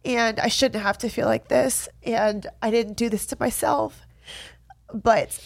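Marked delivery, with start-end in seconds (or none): 0.0-4.0 tearful. Real, not acted. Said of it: "crying on camera".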